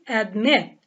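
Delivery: "admit" stressed on its second syllable, slowly. Shown as a demonstration. Teacher reading out the last exercise, second-syllable stress on "admit". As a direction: put the weight on "-mit" in "admit". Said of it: "stress on the second syllable".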